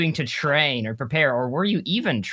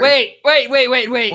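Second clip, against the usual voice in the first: surprised interruption; 6 semitones higher, 6 dB louder than usual. Real, not acted.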